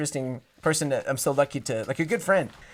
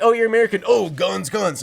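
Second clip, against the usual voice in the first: higher mocking imitation; mock stereotyping; 4 semitones higher, 5 dB louder than usual. Comparing it to foreigners teasing Americans, mocking imitation. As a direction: tease with a national stereotype. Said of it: "it's like something like".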